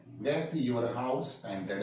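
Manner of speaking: drawn-out, word-by-word teaching read; very slow model sentence. Shown as a demonstration. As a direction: spell the sentence out slowly for students. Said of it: "यानी जो work है".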